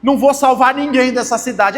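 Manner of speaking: pouting mock complaint; mock sulking. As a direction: play at being upset and put out. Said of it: "não ficou chateadinho no sentido assim".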